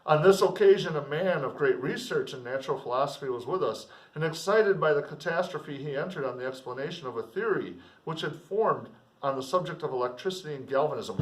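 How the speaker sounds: measured literary reading; steady classroom reading of a novel; novel read aloud. Acted.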